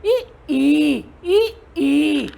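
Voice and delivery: ई alternately clipped short and held long; short-long vowel contrast. Shown as a demonstration. Teacher contrasts small and big vowels, ई short then long. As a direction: alternate a quick ई with a stretched ई. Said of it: "बड़ी ई है तो हम बोलते हैं".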